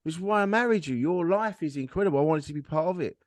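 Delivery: high, insistent praise; heartfelt amazement. Retold or imitated. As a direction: marvel at them, stressing the praise. Retold heartfelt reply to wife.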